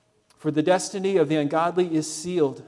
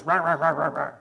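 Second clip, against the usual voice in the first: mock grumbling.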